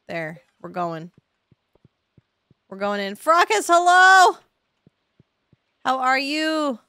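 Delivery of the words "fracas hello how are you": high, loud gushing hello to a friend; excited greeting. Real, not acted. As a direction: squeal it out like greeting your bestie. Greeting a game character excitedly.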